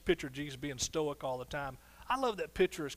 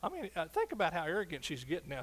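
normal talking voice

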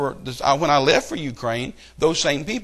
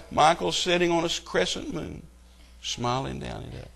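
mock tribute; 2 semitones higher, 4 dB quieter than usual. Mocking the quote again.

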